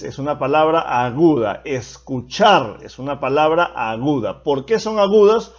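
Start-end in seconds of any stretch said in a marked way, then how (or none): 1.6-2.8 "Escuchar" with the weight on -char; teacher's example, leaning on the end of "Escuchar"; final-syllable stress. Shown as a demonstration. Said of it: "llevan la mayor fuerza de voz en la última sílaba".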